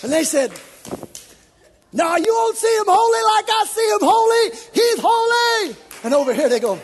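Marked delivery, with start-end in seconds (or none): 1.9-5.8 high, loud ecstatic cry of praise; shouted worship. Acted. Worshippers crying out to God, ecstatic loud shout.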